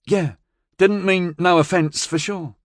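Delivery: barely sarcastic apology; a thin edge of sarcasm. A narrator's reading. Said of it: "one degree above sarcasm".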